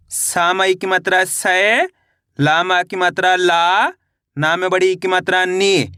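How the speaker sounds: slow chant, last syllable stretched and rising; drawn-out, lilting matra drill; spelling drill recitation. Shown as a demonstration. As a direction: spell it out for pupils to repeat.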